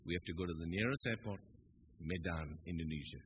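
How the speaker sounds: low, soft intercom captain; lightly voiced airline captain; a hint of a captain on the PA; captain's announcement. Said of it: "this is your captain speaking".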